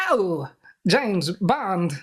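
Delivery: a very slow, drawn-out mock villain groan; lightly voiced Max Zorin hurt by Bond; Bond villain impression. Podcast host doing the villain for his co-host, hammed-up and slow. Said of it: "not the end of the impression".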